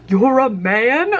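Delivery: acted-out incredulous double take. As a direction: stretch it out in disbelief as it climbs. Acting out her shocked reaction.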